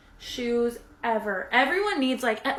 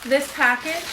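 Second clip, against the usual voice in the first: surprised; 3 semitones higher, 3 dB louder than usual. Real, not acted. Surprised by two boxes.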